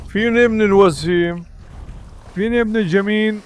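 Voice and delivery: drawn-out, lilting pet talk; cooing to a pet. Real, not acted. Owner fondly asking his dog where the handsome boy is, cooing.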